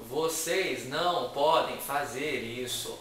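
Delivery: every word stressed equally, slow and loud; slow, evenly punched monotonous delivery; same stress on everything. Retold or imitated. Imitating a politician who talks all the same way, evenly stressed. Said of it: "fala tudo com a mesma entonação".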